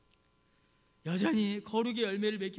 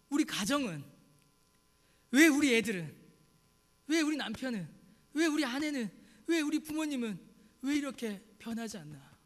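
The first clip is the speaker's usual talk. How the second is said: 답답한 하소연; 2 semitones higher, 3 dB louder than usual. Acted. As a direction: vent mild frustration at your own family. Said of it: "그런 답답함이, 그런 화". (답답해서 따지듯이)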